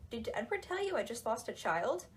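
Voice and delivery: lightly chirpy quirky-character quote; a touch of put-on cheeriness; mock upbeat. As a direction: chat it out breezily, as if it were cheerful news. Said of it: "in a really upbeat tone".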